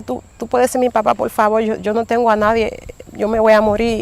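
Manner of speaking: put-on soft, quiet begging as a helpless girl; retold pleading. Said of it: "yo le, le supliqué". (súplica suave y baja)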